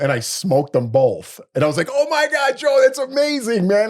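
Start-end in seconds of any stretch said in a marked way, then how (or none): 1.9-3.9 high, hammed-up gushing praise; fake-gush over the host to rub it in; mock amazement. Gloating after beating Joe.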